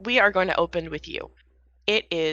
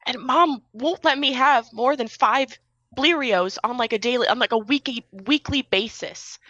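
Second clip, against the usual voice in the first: put-on kid voice; 5 semitones higher than usual. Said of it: "He turns and he's just like".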